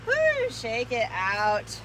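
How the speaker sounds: loud, slow, relieved cheer; excited cheer. Real, not acted. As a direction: whoop it out, stretched long. End of a hard set.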